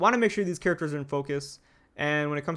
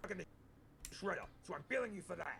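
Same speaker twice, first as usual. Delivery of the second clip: gruff put-on voice, quieter; 19 dB quieter than usual. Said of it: "you got that gruffness in there".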